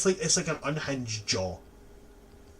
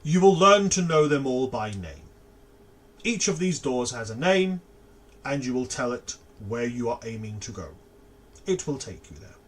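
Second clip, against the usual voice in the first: firm, louder professor; 5 dB louder than usual. Acted. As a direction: explain the doors firmly. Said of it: "And he says".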